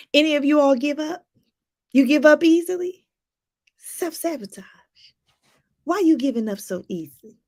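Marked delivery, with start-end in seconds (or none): 3.8-4.6 whispered verdict; a knowing whispered aside. Real, not acted. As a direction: hiss the label softly. Whispered punchline after question.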